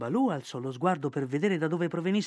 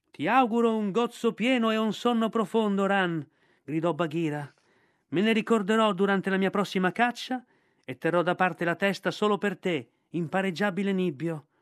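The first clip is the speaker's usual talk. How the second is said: higher, louder call to the sky; grateful panther calling up; 5 semitones higher, 3 dB louder than usual. Acted. Bagheera shouts thanks up to the kite, grateful. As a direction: call your thanks up to the bird.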